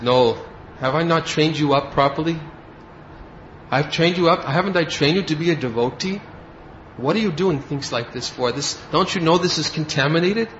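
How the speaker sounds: a mild mock chastising of a careless disciple; stern scolding. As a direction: scold him like a strict teacher. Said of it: "Prabhupada sometimes would speak very, very strongly like this".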